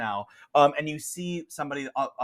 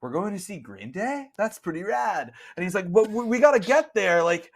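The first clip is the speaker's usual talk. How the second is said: higher, louder excited dude; second dude; 7 semitones higher, 4 dB louder than usual. Acted. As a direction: pile on about the concert. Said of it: "the other guy is like".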